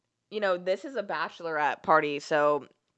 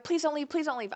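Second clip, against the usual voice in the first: high, softer imitated pleading; mock begging; 9 semitones higher, 4 dB quieter than usual. Girls begging while she gathers her stuff, mock pleading. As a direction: beg softly in a high imitated voice.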